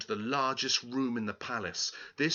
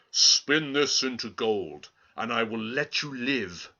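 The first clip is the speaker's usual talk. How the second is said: king's order; 5 dB louder than usual. Acted. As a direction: order her coldly. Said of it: "the king ordered".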